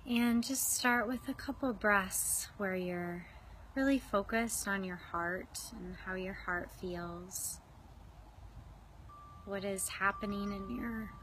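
unhurried meditation guide with long pauses; guided meditation. Real, not acted. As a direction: ease listeners into their breath, leaving space. Starts leading a guided meditation.

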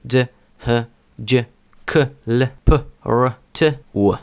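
separate, punchy English consonants from Дж to У; English-accented Дж, Л, П, Р; English letter sounds. Shown as a demonstration. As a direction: sound out Дж, Г, К as an English speaker would. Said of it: "коли англомовна людина дивиться на ці літери".

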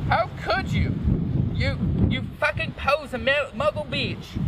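very high mock outrage; overacted high-pitched accusation; angry shout. A narrator's reading. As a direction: hurl it in a high, hammed-up voice. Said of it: "he shouted".

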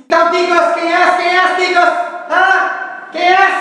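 high-pitched mock character voice; mystery character. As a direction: quiz them as a put-on character. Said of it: "Eu vou fazer um personagem".

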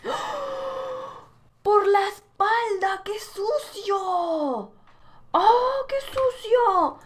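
high, slow outraged yell; outraged shout. Real, not acted. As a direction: cry out at a dirty trick. Hit from behind, outraged.

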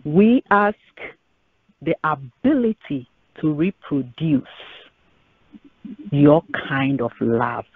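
earnest spoken prayer to the Lord; measured pulpit prayer. Acted. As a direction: pray it, steady and sincere. Pastor leads closing prayer.

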